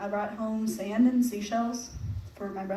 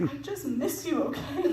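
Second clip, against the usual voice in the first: laughing plea; 6 semitones higher than usual. Retold or imitated. Tearful reply to mom retold.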